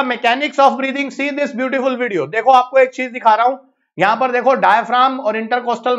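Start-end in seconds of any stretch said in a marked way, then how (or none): 0.0-2.3 stretched, slow showcase delivery; slow teacherly announcement; slow emphasis. Shown as a demonstration. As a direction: present the video slowly and grandly. Teacher introduces video slowly.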